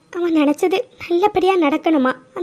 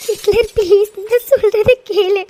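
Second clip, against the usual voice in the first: tearful; slower than usual. Acted. Begging husband to listen.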